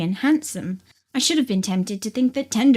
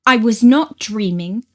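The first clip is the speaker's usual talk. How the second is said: a touch of heat, louder and firm; with some warmth; 7 dB louder than usual. Acted. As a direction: push back, provoked by her coolness. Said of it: "I said with some warmth".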